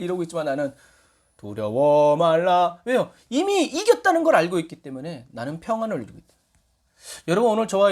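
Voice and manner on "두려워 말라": calm assurance. Retold or imitated. Calm believer amid panic.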